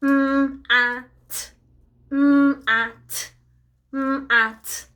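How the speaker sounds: lightly robotic sounding-out, flat and spaced; robot talk. Pretend. Costumed robot gives children a word clue, lightly robotic. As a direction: drone the sounds like a toy robot, only a hint. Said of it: "he can only do his Robotalk".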